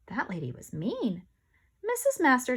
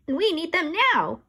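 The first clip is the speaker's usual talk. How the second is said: raised, higher and louder demand; teacher hollering into the phone, louder; 8 semitones higher, 6 dB louder than usual. A narrator's reading. Teacher hollering at somebody on the phone, louder. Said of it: "he hollered".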